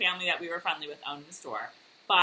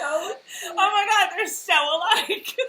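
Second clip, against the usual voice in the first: higher, louder excited exclaim, slowing at the end; excited squeal; 10 semitones higher, 6 dB louder, slower than usual. Real, not acted. Friend realising two people match, excited squeal. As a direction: burst out in delighted disbelief.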